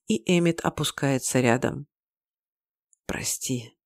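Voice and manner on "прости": soft breathy whisper. A narrator's reading. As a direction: whisper the apology. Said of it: "шепчу я".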